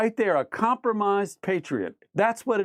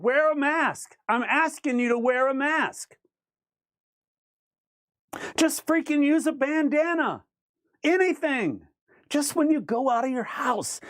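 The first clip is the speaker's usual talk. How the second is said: raised pleading quote; 7 semitones higher than usual. Retold or imitated. Quoting Trump's plea, raised.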